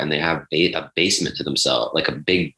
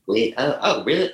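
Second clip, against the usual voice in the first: pitched up, excited gossip; high girly voice; 6 semitones higher than usual. Retold or imitated. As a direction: go high and breathy-surprised like a girl. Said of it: "their voices get higher".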